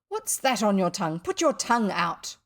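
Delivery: stern, firmly voiced demand; stern questioning. Father demanding to inspect his son's tongue, stern. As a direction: order the boy to obey. Father scolds boy in story.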